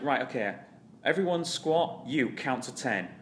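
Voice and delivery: coach calling out. Retold or imitated. Coach directing packed class.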